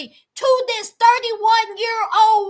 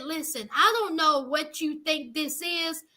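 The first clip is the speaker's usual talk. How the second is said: blunt brush-off; 3 semitones lower than usual. Retold or imitated. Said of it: "he said".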